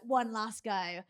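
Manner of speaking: slow, drawn-out coach repeat; coach urging. Retold or imitated. Coach repeating to athlete, slowed and pressing. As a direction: drag it out, pressing the point. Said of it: "his coach being like".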